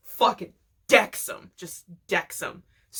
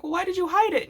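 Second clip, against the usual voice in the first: kids voiced high; 11 semitones higher, much faster than usual. Kids asking Stan, voiced high.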